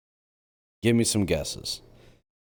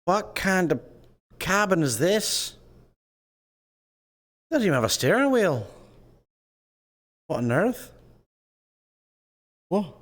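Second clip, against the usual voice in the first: high, fast incredulous squeal; much higher, fast and bewildered; baffled squeak; 11 semitones higher than usual. Pretend. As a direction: squeak out your disbelief at the odd cabin. Baffled at strange VR cabin.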